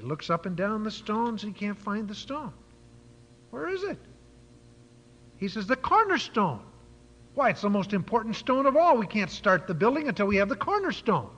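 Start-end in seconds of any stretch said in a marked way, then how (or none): 3.5-4.0 high-pitched, soft puzzled question; puzzled searching. Acted. Builder searching for missing stone. 5.7-11.3 acted exasperation, pitch raised; higher, emphatic mock urgency; insistent builder. Builder acted, demanding the missing stone.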